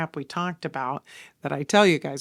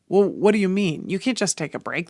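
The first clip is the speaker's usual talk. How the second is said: lost it; 3 semitones higher, 5 dB louder than usual. Retold or imitated. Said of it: "And I lost it. Not, like, screaming lost it".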